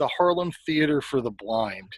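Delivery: ordinary talk, nothing marked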